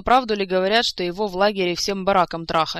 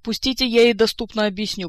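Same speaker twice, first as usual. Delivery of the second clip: loud, forceful angry growl, pitched up; 4 semitones higher, 8 dB louder than usual. A narrator's reading. Kantor held back from attacking Saeta, growling. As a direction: growl to be let loose. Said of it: "прорычал Кантор".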